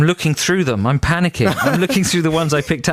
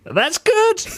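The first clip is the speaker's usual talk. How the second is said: high laughing that's good. Real, not acted. Host laughing at the joke, high and laughing. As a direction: laugh through the words.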